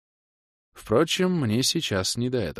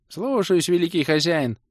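much higher, piercing and whiny; shrill plaintive voice; 10 semitones higher than usual. A narrator's reading. Servant answering his great master from behind, shrill and plaintive. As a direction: whimper like a servile minion. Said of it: "пронзительный и жалобный голос".

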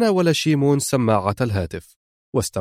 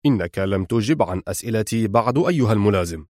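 lower, settled tone; calmly; 3 semitones lower than usual. Acted. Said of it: "فقال في هدوء". (بهدوء ونبرة منخفضة)

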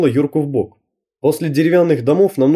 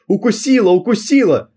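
high pained yelps; дикие крики; 8 semitones higher than usual. A narrator's reading. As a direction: cry out from a dog bite. Собака укусила, дикие крики. (Укушенный парень кричит от боли)

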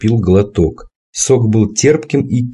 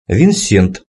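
matter-of-fact. Acted. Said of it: "констатирующим голосом сказал прозектор".

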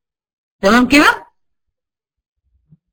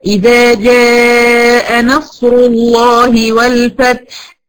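slow, measured tajweed recitation; Quran recitation; much slower than usual. Shown as a demonstration. Teacher reciting a verse as an example, slow recitation. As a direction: recite it slowly with a heavy lam in الله. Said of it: "أقول مثلًا إيه؟".

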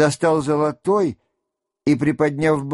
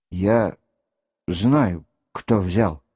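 low, shaky repetition; trembling voice; 8 semitones lower, slower than usual. A narrator's reading. Rostov repeating his accusation in a trembling voice. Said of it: "повторил Ростов дрожащим голосом".

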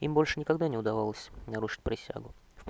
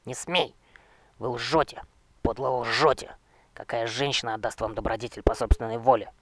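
loud, outraged accusing shouts; furious denunciation; 6 dB louder than usual. Acted. Young knight shouting his accusations at the necromancer king, outraged.

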